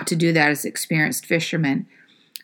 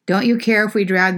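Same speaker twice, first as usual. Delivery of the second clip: incredulous echo; 3 semitones higher than usual. Retold or imitated. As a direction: repeat the disciples' plea in disbelief.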